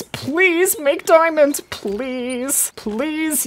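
pleading. Real, not acted. Hunter begging for a diamond after the shot, slow plea.

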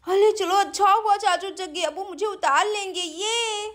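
put-on lightly lisped child voice, relieved; relieved little girl. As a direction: sound like a small child glad help has come. Sweety relieved uncle woke. (तुतलाती बच्ची की राहत भरी आवाज़)

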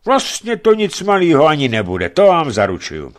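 loud, lewd leering aside; a loud obscene hint to the woman. Acted. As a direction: leer as you promise it. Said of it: "dodal mimořádně oplzle".

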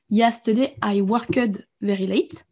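slow, careful demo of the right sentence; correct tense example. Shown as a demonstration. Teacher slowly modelling the correct past-tense sentence. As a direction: spell out each word slowly. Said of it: "et ça c'est possible".

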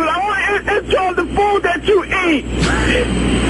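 real emotional rant, half crying, half yelling; upset tearful rant. Real, not acted. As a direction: pour it all out, upset and pleading. Tearful caller ranting on voicemail.

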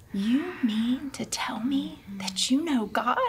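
hushed, whispery retelling of disbelief; hushed intense plea. Retold or imitated. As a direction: lightly act out a stunned confrontation. Retold driver's desperate plea.

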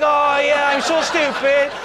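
put-on high, breathy-free girlish question.

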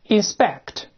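inspect read clearly as the English word; model reading. Shown as a demonstration. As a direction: say inspect for the class to repeat. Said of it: "先读动词检查".

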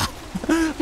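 high put-on giggle; mocking giggle. Player capping the imitation, mocking high giggle. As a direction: giggle like the odd game character. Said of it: "giggles like that".

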